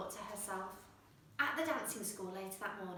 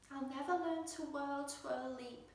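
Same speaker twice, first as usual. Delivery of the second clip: sad whisper; 4 semitones higher, 4 dB quieter than usual. Acted. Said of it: "she whispered sadly".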